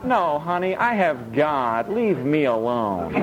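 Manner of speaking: a touch of sleepy calm; calm believer. Retold or imitated. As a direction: brush it off calmly. Calm believer answers spouse.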